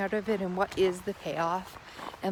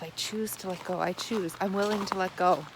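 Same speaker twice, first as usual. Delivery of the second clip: gentle self-reminder; 2 semitones lower than usual. Shown as a demonstration. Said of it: "Just keep reminding yourself".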